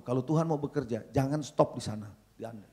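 normal talking voice

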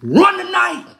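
high, laughing jeer; laughing taunt. Acted. Coach jeering rival team, high laughing taunt. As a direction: crow it out with a laugh.

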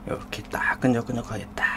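softly whispered food description; ASMR-style whisper over sticky dumplings. Real, not acted. Showing sticky sauce on dumpling.

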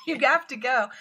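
loud, pressing order; imitated shout. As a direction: insist at the top of your voice. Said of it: "there's often yelling".

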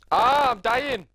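high, loud laughing cry; real laughter at a friend's joke; dying of laughter. Real, not acted. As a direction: shout through real laughter. Laughing hard at teammate.

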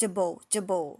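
"able" said as juh-bul, twice; joined consonant. Shown as a demonstration. Teacher joins G to the suffix, joined consonant. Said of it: "เสียงตัว G มาบวกกับ เอ ก็เป็น j".

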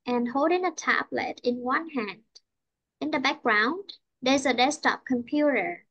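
slow teacher read-aloud with clear rises and falls; deliberate, sing-song intonation demo; model reading. Shown as a demonstration. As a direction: read phrase by phrase, lifting mid-sentence, falling at each close. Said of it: "Cô đọc lại nè".

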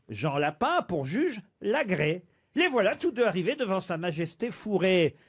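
measured poetry reading, mildly dramatic; reciting a fable. Acted. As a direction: recite the verse like a storyteller. Continues reciting fable verses.

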